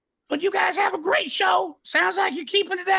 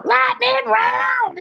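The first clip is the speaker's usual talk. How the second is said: hype announcer shout; 6 semitones higher, 5 dB louder, much slower than usual. Acted.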